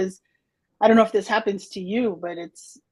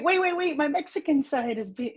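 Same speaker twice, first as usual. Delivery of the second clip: mock protest; 6 semitones higher than usual. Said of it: "And then I'm like".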